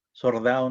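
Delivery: "Sordado" with r in place of l, sor-dado. Shown as a demonstration. Teacher showing a grave error, "Sordado" with r for l. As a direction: say "Sordado", swapping the l for an r. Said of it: "en vez de soldado".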